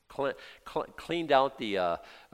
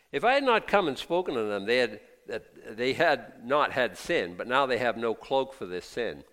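forceful preaching; 3 semitones higher, 7 dB louder than usual. Acted. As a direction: thunder the scripture at the congregation. Preacher reading scripture with force.

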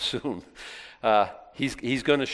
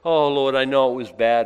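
mock self-pity; 10 dB louder than usual. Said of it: "I say it like this".

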